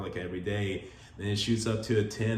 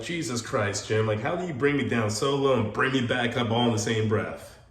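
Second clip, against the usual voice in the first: louder, higher playful disbelief; exasperated mock outburst; 3 semitones higher, 5 dB louder than usual. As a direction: throw up your hands at her, half laughing. Exasperated reply to wife.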